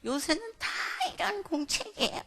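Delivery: put-on high-pitched child's protest; imitated protesting child. Child defends notebook to mother, high protesting voice. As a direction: play a child whining back, pitch climbing.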